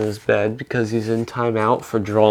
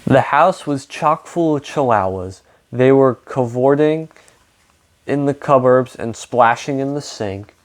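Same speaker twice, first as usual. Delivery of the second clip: reading a picture book aloud to children, with lightly voiced characters; story narration. A narrator's reading. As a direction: tell the story to a young audience.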